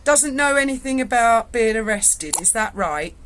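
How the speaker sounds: mock-serious sergeant. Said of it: "he went".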